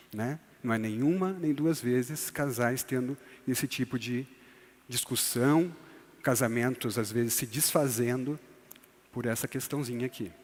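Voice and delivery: ordinary talk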